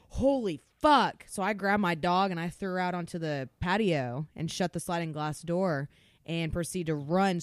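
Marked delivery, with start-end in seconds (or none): 0.1-1.2 slow, drawn-out horrified curse, higher and louder; stunned at the sight of the flaming wall; shocked swear. Retold or imitated. Seeing the kitchen wall on fire, a stunned drawn-out curse. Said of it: "And I was like".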